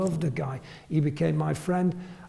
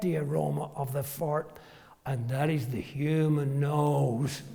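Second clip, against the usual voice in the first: deadpan. Retold or imitated. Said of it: "exactly what he said, deadpan".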